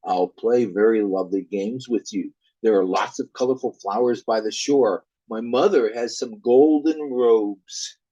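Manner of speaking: a hint of a luring spirit; luring Elf King. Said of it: "The Elf King".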